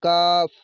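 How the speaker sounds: کاف said with a thin, light ک; thin kaf sound. Shown as a demonstration. Teacher showing pupils a thin کاف. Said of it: "آواز کو باریک پڑھیں گے".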